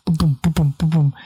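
low, thudding booms like a pulse; imitated heartbeat. Performer mimics the heartbeat in their ears, thudding. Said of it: "hear was my heartbeat".

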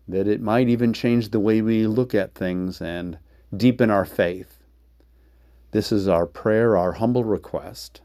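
a gentle spoken prayer. Acted. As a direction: pray it humbly and steadily. Opening prayer before the sermon.

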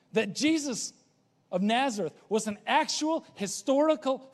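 measured, building sermon cadence; preaching creed. Acted. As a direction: lay out each article of faith with weight.

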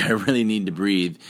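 a touch desperate; real urgency. Shown as a demonstration. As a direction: push the need for air. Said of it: "you might get to a point where".

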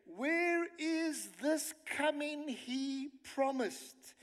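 ridiculing. Acted. Preacher reading the scoffers' question to the congregation, ridiculing. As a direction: draw out the taunt in mock disbelief. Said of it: "It's almost like they're gonna ridicule".

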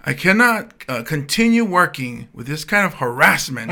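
hammed-up union-speak complaint; mock-formal complaint. Driver reciting trigger words to dispatch: mock-formal. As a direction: lay on the official grievance. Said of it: "I know all the key words".

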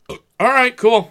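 high, loud sarcastic all right cool; mock cheerful. Hockey fan recalling his fake cheer, mock upbeat.

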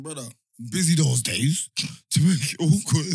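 laughing through the retold reply; giggling mid-sentence. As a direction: laugh as you quote yourself. Laughing while retelling own reply.

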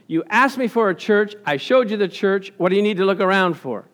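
very strict. Retold or imitated. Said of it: "in a angrily, not, he didn't lose his temper, but very strict".

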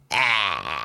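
low drawn-out "ah"; imitated creepy noise. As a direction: let out a low, long noise as the cousin. Cousin's gesture with finger, acted.

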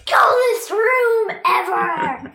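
mock delighted shout. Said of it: "You're like".

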